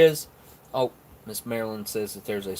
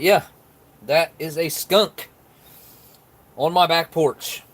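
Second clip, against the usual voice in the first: surprised; 6 semitones higher, 5 dB louder, slower than usual. Real, not acted. Reveals skunk on porch.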